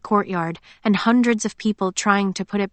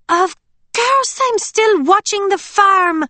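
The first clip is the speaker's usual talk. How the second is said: put-on higher, slow, bright-toned young woman; Emily's voice; 13 semitones higher, 6 dB louder, slower than usual. A narrator's reading. Friend on the call, lightly hurt, high voice. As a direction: play the bubbly friend, a little hurt.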